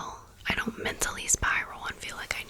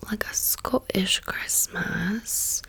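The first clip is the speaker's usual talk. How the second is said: put-on a slow, playful British accent, still whispered; slower than usual. Describing the flannel to viewers, in a whispered British accent. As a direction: slip into a British accent for a moment, half by accident. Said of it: "Why did I say that with a British accent?".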